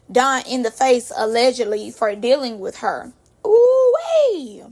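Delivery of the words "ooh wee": loud, high, drawn-out whoop; gleeful exclamation. Real, not acted. Reacting to the punch gossip, long high whoop. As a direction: hold it high, then swoop down.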